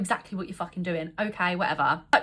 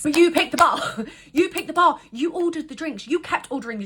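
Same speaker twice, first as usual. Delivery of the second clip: indignant; 5 semitones higher, 3 dB louder than usual. Real, not acted. Indignant repeat with laugh.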